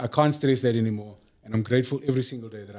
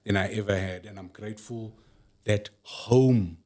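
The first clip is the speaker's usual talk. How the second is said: soft and slow, sincere; tender; 2 semitones lower, 5 dB quieter than usual. Real, not acted. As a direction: speak slowly with tender love. Tender gratitude about wife.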